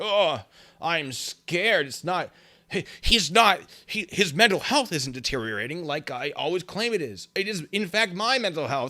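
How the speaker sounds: high, loud, slow mocking caricature voice. Imitating a critic who is running away, mocking impression of a critic. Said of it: "that's my impression of him".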